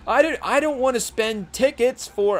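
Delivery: high, put-on Bronx rapper voice; a quick, rough take on a New York rapper; half-serious rapper impression; impression of a well-known rapper. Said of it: "trying to do a Fat Joe impersonation".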